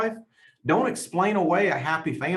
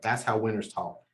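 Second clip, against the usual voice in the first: quiet, softer, lower, awed aside to himself; hushed awe; 5 semitones lower, 5 dB quieter than usual. Retold or imitated. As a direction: murmur it like chills down your spine. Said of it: "I was like".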